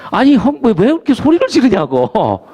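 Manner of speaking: high-pitched, mock-exasperated questioning; retold protest. Asking his hyung why he yells, animated mock protest. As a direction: act out challenging an older friend. Retells confronting his shouting friend.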